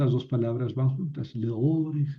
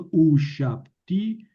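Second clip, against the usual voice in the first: slow model reading; 3 dB louder, slower than usual. Shown as a demonstration. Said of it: "teacher models Hebrew reading".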